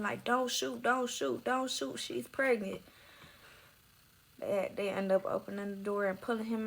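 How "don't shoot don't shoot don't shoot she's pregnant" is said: higher-pitched mild mock yell; retold yelling. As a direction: plead repeatedly in a raised pitch, no real volume. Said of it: "He yelling".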